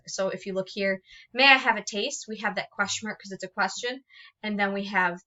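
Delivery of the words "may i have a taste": questioning. Shown as a demonstration. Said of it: "you're gonna want to have those".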